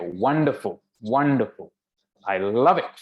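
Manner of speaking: delighted king, relishing each word; proud and happy. Acted. King hearing his daughter's praise, proud and pleased. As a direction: savour the praise with punchy stresses. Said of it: "made the king proud and happy".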